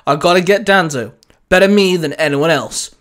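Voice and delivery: mildly snapped, insistent; a touch of defiance; snapped reply. Acted. Winston defies his commanding officer, mildly snapped. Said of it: "Winston snapped".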